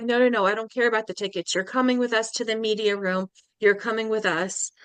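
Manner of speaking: retold eager insistence; insistent invitation. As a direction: wave away the doubt and insist. Friend insisting she join them.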